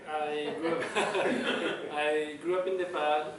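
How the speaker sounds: laughs through the words; laughing. Real, not acted. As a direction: chuckle while saying where he grew up. Laughing while introducing himself.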